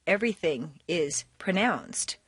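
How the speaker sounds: each word set apart and fully pronounced; mock careful English-teacher diction; over-enunciated teacher English. Shown as a demonstration. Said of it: "English teacher English where everything is pronounced".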